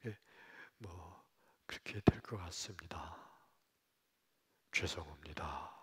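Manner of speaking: low, hesitant whispered verdict; hushed doctor. Retold or imitated. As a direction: hesitate and soften the blow. Doctor gives time left. (조심스럽게 속삭이는 의사)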